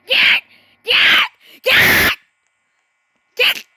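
loud urgent yells; frantic shouting. Real, not acted. Gamer yelling at his characters to run, frantic. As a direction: bark orders in a panic.

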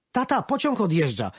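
little son calling to his dad; boy calling out. A narrator's reading. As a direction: son shouting that the train is leaving. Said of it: "krzyknął synek".

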